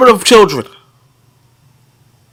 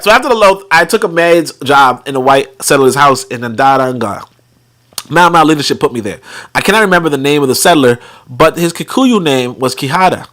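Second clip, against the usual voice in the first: measured read-aloud voice; 6 semitones lower than usual. A narrator's reading. Reads a memoir aloud.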